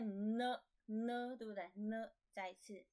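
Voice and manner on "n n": N sounded as a drawn-out nuh; consonant demonstration. Shown as a demonstration. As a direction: hold the n, then open N into uh. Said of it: "N是念N".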